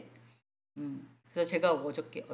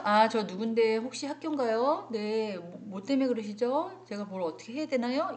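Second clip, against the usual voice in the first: polite phone answer; 4 semitones higher than usual. Shown as a demonstration. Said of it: "이렇게 얘기를 하셔야 되는데".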